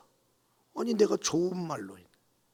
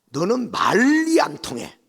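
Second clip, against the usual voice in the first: louder exasperated snap; angry scolding; 6 semitones higher, 10 dB louder than usual. Retold or imitated. Mother-in-law giving up on her daughter-in-law, angrily. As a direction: cut her off in anger.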